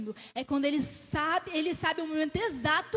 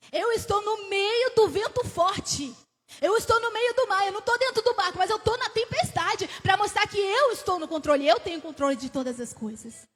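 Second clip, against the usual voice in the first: Jesus declaring; 4 semitones higher, 5 dB louder than usual. Acted. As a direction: proclaim it over the roaring wind, louder each line. Preacher voices Jesus in the storm.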